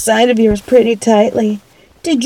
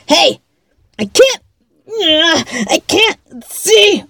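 blinded panic; 5 semitones higher than usual. Acted. Frosting in her eyes.

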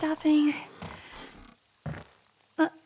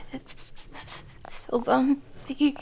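drawn out; 2 semitones lower, 3 dB quieter, much slower than usual. Acted. Drawn out on the bumps.

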